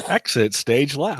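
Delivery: drawn-out cartoon catchphrase voice; Snagglepuss. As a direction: stretch it out like a theatrical cartoon character. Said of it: "That was Snagglepuss".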